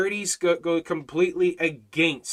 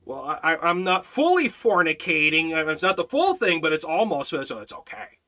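louder, lightly mocking rationalizer; mock excuse-maker; 5 dB louder than usual. Preacher parodies someone excusing almost-sin, mock self-justifying. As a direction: play up a lame excuse, louder. Acts out the same excuse absurdly.

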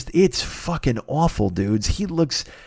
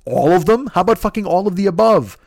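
exasperated comeback; 5 semitones higher, 4 dB louder than usual. Retold or imitated. His exasperated comeback to everybody.

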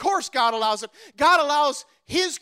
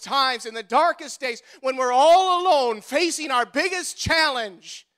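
preaching at full force. Acted. Preacher driving the congregation through the refrain, building preach. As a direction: hammer the refrain home each time.

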